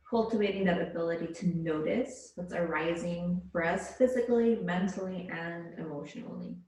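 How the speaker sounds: calm, measured yoga-teacher voice; unhurried relaxation-class delivery; guided yoga meditation. Real, not acted. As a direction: guide them gently into their breath, leaving space between phrases. Leads yoga breathing meditation.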